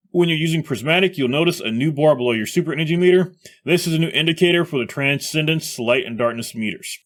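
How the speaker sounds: hiccuping while reading; with hiccups. Real, not acted. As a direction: talk through hiccups. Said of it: "I got the hiccups really bad tonight".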